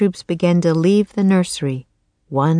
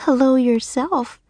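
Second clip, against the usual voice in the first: high, friendly greeting with a smile; smiling, lifted pitch; 6 semitones higher than usual. A narrator's reading. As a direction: greet a tiny creature with a smile. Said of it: "Annie said, smiling".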